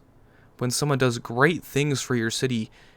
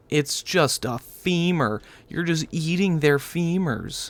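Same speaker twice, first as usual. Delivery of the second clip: slow disbelief; 5 semitones higher, slower than usual. Real, not acted. Disgusted at necromancer.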